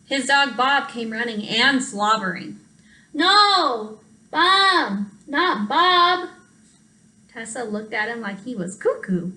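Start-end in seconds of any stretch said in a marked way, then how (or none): 3.1-6.3 high, louder whiny no; frustrated protest. Acted. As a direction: correct him, fed up and stuffy. Frustrated sick child correcting.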